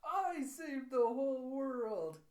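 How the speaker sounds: high, loud, slow boasting, building to the last words; triumphant child. Retold or imitated. Child gloats over saving papa's life, loud triumph. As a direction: crow it out like a little hero.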